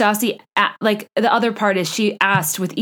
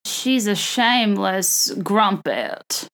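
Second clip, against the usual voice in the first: slow, badly faked Southern accent; the speaker, bad Southern accent; much slower than usual. Reality star in a running promo, drawn-out mock Southern accent. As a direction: attempt a Southern accent that slips toward Australian, stretching the words. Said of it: "I'd have a better Southern accent".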